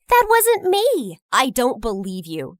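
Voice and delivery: emphatic denial. Acted. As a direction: insist on it, hard. Jenny denies the prank.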